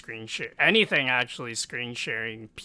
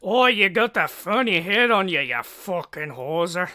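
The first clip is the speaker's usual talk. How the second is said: loud, high mock heckler; hammed-up jeer in a silly voice; funny voice; 6 semitones higher, 10 dB louder than usual. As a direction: heckle loudly in a put-on voice. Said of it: "Making the funny voices".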